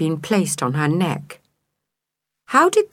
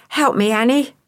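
higher, pleading appeal; begging; 6 semitones higher than usual. A narrator's reading. Boy begging the neighbour for help, pleading. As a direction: beg her earnestly. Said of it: "Edward begged".

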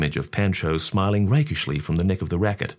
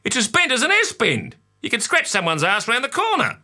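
father. A narrator's reading. Father voiced in story.

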